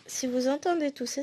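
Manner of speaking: normal talking voice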